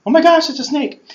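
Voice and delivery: high, loud panicked squeal at the snake; scared shriek. Retold or imitated. Moses seeing his staff become a snake, panicked high shriek. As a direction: shriek it like you just saw a snake.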